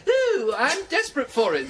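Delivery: Irish punchline done with a chuckle; leprechaun. Shown as a demonstration. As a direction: coach demonstrating the Irish joke line. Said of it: "paddy does not say".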